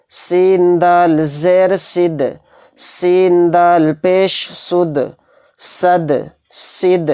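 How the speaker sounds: slow, steady syllable spelling; qaida drill reading. Acted. Teacher drills qalqala syllables, slow steady reading. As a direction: read each spelling slowly for students to repeat.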